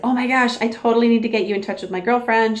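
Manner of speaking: mildly imitating an excited checkout guy; a touch of retold excitement; excited retelling. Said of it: "he got all excited".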